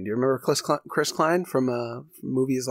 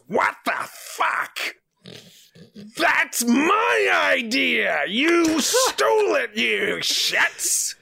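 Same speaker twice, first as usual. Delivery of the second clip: furious Willem Dafoe; 13 semitones higher, much slower than usual. Retold or imitated. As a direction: screech it like a betrayed, raging actor. Willem Dafoe enraged in story.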